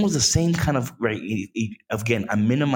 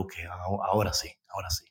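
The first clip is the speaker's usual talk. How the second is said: soft reassurance; 5 semitones lower, 7 dB quieter, faster than usual. Retold or imitated. Voiced calm reply.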